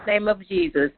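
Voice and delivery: earnest prayer voice, lifting names up to God; closing prayer. Real, not acted. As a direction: pray it over the group with conviction.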